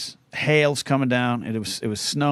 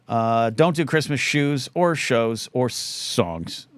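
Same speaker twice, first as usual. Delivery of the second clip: mock audience request; much slower than usual. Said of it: "says the audience".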